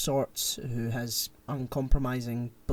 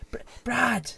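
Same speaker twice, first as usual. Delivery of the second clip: high-pitched comic call; mock shout; 10 semitones higher than usual. Retelling how he runs back shouting, mock shout. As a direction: call the name with a false start. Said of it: "he's shouting".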